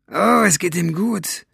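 high, slow, drawn-out taunt; taunting villain. A narrator's reading. Basta answering Maggie about her father, taunting. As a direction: toy with her, stretching the words.

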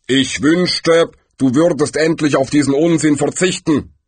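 mildly exasperated voice of Death; sighing Death. A narrator's reading. Death sighs at the nonsense, mildly weary. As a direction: say it with a touch of weariness. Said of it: "seufzte Tod".

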